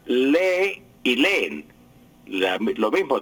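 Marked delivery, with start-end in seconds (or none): 0.1-1.7 lee and leen slowly, stressed on the first E; acento grave. Shown as a demonstration. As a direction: model LÉ-e, LÉ-en. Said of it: "Lo mismo con la palabra". (lee y leen con acento en la primera e)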